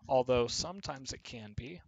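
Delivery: ordinary talk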